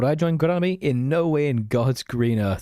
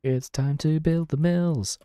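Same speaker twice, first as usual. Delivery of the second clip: higher, slow, drawn-out hype line; hyped announcement; 5 semitones higher, slower than usual. Pretend. Streamer hyping up building mills for viewers, higher slow announcement. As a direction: announce it like a big event, stretching it out.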